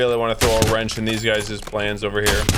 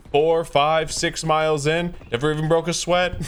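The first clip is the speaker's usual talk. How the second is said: lightly voiced Trump bragging, a bit higher; Trump impression; 3 semitones higher than usual. Mocking Trump bragging about athleticism, light Trump voice. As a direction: boast rambling like Trump. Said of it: "He'd be like".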